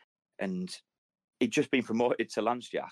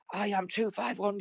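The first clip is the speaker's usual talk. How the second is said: slow, higher, formal recital; reciting army number; 10 semitones higher, slower than usual. Retold or imitated. Retelling a veteran in custody, slow formal recital. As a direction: recite it like a prisoner of war. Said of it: "he goes".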